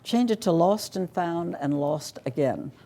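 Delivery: joking husband. Retold or imitated. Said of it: "is a wag".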